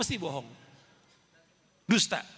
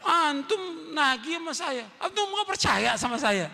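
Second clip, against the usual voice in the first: mock angry; 5 semitones higher, slower than usual. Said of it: "wah, marah dia".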